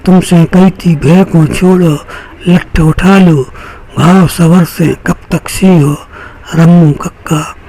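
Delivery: rhythmic Bundeli verse recital; measured poetic delivery with repeated refrain; poem recitation. Acted. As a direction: recite it line by line to an audience, leaning on the refrain. Recites his refrain poem before introducing himself.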